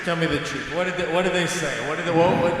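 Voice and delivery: interrogating a cat. Pretend.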